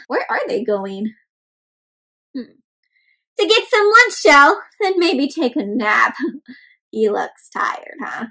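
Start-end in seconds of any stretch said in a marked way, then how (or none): 3.4-6.2 sleepy egg. Acted. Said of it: "says this one".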